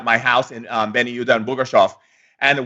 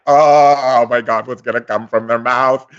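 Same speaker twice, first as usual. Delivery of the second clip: excited gush; 2 semitones lower, 4 dB louder than usual. Retold or imitated. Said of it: "They're like".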